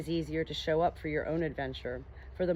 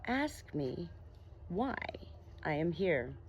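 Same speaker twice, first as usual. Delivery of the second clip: soft, far-off and melodious; a faint, musical voice drifting in; 2 semitones lower, 7 dB quieter, slower than usual. Acted. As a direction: call gently from somewhere distant. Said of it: "a melodious voice".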